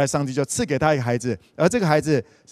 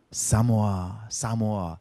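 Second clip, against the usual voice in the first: quieter, lower name called beside a sleeper; soft calling; 5 semitones lower, 5 dB quieter than usual. Acted. God stands by sleeping Samuel, calling softly. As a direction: call gently so as not to startle.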